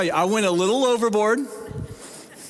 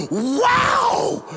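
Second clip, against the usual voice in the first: put-on excited little girl. Pastor re-enacting the girl's amazed shout, squealed very high. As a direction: squeal it like a thrilled child. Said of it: "she was so excited".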